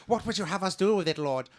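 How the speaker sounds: high, loud awed creature voice; groveling creature. Acted. Fish creature groveling to the player's fake god, high and awed. Magon asks his god.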